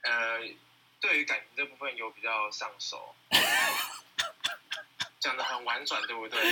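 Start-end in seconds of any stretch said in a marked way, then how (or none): 3.3-5.1 long, very high peal of laughter. Real, not acted. Reacting to a coy answer about love life, high laughter. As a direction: burst out laughing, amused. Amused by evasive dating answer.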